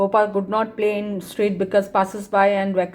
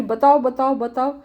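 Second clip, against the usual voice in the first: pestering plea; 4 semitones higher, much faster than usual. Retold or imitated. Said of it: "वो पूरा हल्ला कर रहा है".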